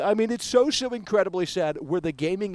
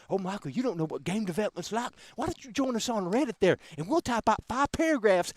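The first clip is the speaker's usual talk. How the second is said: lightly voiced smug Reddit know-it-all, softer; a hint of a preachy armchair critic; mock condescending critic; 4 dB quieter than usual. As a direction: sneer it like a patronizing forum poster.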